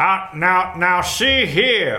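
put-on Southern gentleman accent. Player trying out the accent assigned in the game, in a southern gentleman accent. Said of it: "Southern gentleman".

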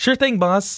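goofy, eager voice. Retelling a TV scene where Simon answers his boss: imitating Simon with a big goofy smile. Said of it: "he looks up with a big, like, goofy, gr-, like, smile going".

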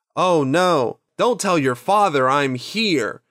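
put-on bad acting voice. Imitating a film character reading her lines badly: Rita's deliberately bad line reading. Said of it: "Rita is super bad in that, uh, in that reading".

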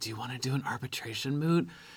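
hushed, soft, very quiet voice. Retelling how a woman asked a question in the library: imitating a hushed voice. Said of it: "in her hushed voice says".

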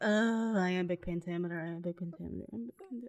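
put-on blasé, half-asleep delivery. Retelling how Robert Pattinson reads Romeo and Juliet: blasé Robert Pattinson line reading. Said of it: "the most blasé line reading".

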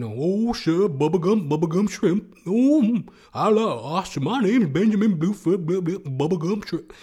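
put-on Cajun accent. Describing a seafood place, speaker slips into a put-on Cajun accent. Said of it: "real Cajun".

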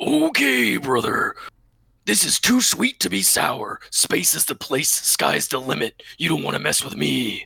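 rough, over-the-top wrestler-style voice, big and loud. Asked by a co-host for one, the speaker does a Macho Man impression. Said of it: "can you do a Macho Man impression?".

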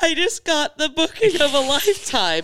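put-on very high, loud laughing and crying together. Retelling answering friends at dinner about a booking, re-enacting crying through laughter. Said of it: "cuz I'm crying at the table".

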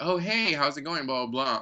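put-on cheerful voice. Acting out someone greeting the speaker on the street, imitating a cheerful greeting. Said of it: "you're all like".

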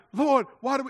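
put-on, desperate, high, loud crying out. Retelling a Bible story, voicing Joshua crying out to God: imitating someone crying out. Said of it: "he's crying out to God".

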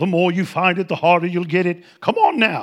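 put-on South African accent. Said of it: "That South African accent".

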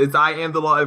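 normal talking voice

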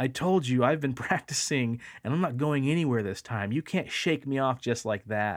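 bold, defiant, challenging, standing firm. Recounting yelling out to a voice, the speaker is retelling a challenging yell. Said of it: "I yell out like challengingly".

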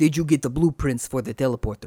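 deliberately bad put-on French accent. Recapping an episode's spy plot, voicing Gilbert in a bad French accent. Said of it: "My French sounds a little Russian".

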